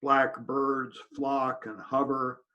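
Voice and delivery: deliberate poem recital with pauses between lines; poetry reading. Acted. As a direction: recite the verse evenly, phrase by phrase. Reads own new poem aloud.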